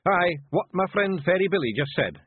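high, rough little Scottish pictie, gently; a tiny Scots warrior breaking bad news; Feegle voice. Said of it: "he managed".

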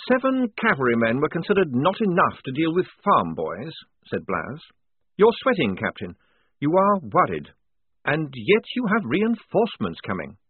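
lightly voiced lieutenant, pressing his point; lieutenant challenging the captain. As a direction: call the captain's bluff.

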